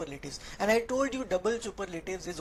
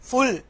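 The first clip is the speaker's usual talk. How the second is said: FULL punched out as the last syllable of beautiful; syllable split; 4 semitones higher, 8 dB louder than usual. Shown as a demonstration. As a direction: set full apart after a pause, firmly stressed. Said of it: "तीनों में आपको pause देना पड़ रहा है". (full को अलग syllable की तरह, ज़ोर देकर)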